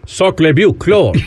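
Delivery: hammed-up French sacre bleu; French accent. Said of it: "'cause that'll do that accent".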